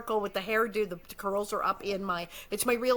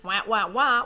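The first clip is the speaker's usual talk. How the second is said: voiced wah-wah stripper riff, getting louder; imitated music riff; 7 dB louder than usual. Describing the bedroom scene's music, mimicked wah-wah riff. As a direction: mimic a bump-and-grind horn. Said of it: "eighteen hundreds version of Bow Chicka".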